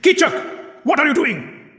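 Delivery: King Virat rising from his throne in shock. A narrator's reading. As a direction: jump up in shock. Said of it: "King Virat was shocked".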